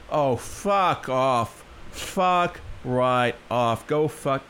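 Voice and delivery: slow, drawn-out fuck off; slow, contemptuous brush-off; disgusted dismissal. Real, not acted. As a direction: stretch each word out in disgust. Reacting to the dress comparison.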